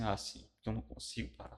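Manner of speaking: hushed, breathy admission; whispered admission of being unable to quit; whispered confession. Retold or imitated. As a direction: confess it under your breath. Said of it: "Aí eu falei assim".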